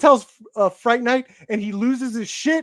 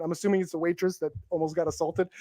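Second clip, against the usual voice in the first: ordinary talk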